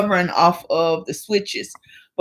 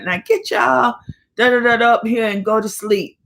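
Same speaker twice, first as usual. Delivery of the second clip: raised pitch, mock scolding mother; mama scolding; 4 semitones higher than usual. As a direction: imitate a mother ordering kids to bed. Imitating mama after a spanking.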